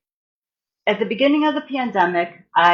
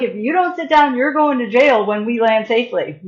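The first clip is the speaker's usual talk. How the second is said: higher, firm warning to a passenger; stern crew threat; 4 semitones higher, 3 dB louder than usual. Retold or imitated. Flight attendant threatening the panicking passenger, mock stern. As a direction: scold her like a fed-up flight attendant.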